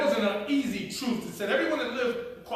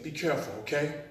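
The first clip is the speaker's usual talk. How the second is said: fatherly caution; 3 semitones lower, 6 dB quieter than usual. Retold or imitated. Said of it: "like my father would say to me".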